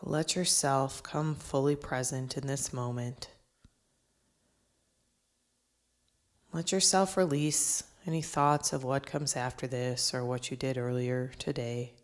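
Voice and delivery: measured breathing-exercise instruction, falling at phrase ends; guided meditation. Acted. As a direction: guide listeners into the present, phrase by phrase.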